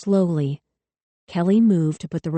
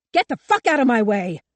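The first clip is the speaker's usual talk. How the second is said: panicked scream; 6 semitones higher than usual. A narrator's reading. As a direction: scream it with the gun raised. Cop screaming again.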